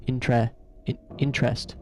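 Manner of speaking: "interest" with a clear EH in the second syllable; E-sound pronunciation. Shown as a demonstration. Explaining the sound in their mind, "interest" as IN-trest. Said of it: "sounds more like an E".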